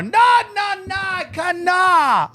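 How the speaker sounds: very high mock Asian accent, drawn out; thick Asian accent. Shop lady refusing cucumber, high mock Asian accent. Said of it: "Thick Asian accent".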